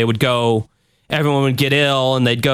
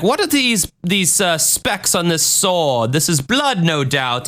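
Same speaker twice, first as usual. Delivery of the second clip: higher mock-pompous investigator voice; 5 semitones higher, slower than usual. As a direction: quiz the expert like a showy investigator. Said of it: "He's like".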